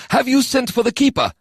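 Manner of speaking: a hint of a high stern lord; lightly voiced commander. A narrator's reading. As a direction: question the general firmly. Sajay voiced in story.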